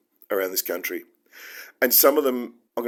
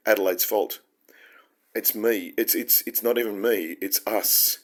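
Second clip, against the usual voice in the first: normal talking voice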